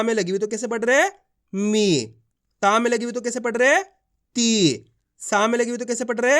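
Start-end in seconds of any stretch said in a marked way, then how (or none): 1.5-2.0 मी with a long, drawn-out ee. Shown as a demonstration. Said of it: "इस तरीके से इसका". 4.3-4.8 ती with a long, drawn-out ee. Shown as a demonstration. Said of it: "इस तरीके से इसका".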